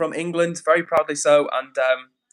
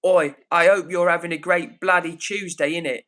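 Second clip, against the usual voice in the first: mock British accent; 2 semitones higher than usual. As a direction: parody of a British person. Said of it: "parodying a British person".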